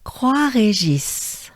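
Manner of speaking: Croix Régis slow, kwa then throaty R; slow French demo. Shown as a demonstration. Teacher leading Croix Régis together, slowly. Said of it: "Let's do it together".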